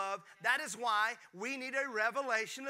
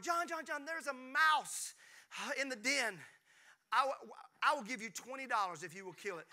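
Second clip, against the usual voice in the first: imitating mom; 3 semitones higher than usual. Pastor imitating mom begging dad to kill the mouse. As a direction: beg like a frightened mother. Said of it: "bad imitation".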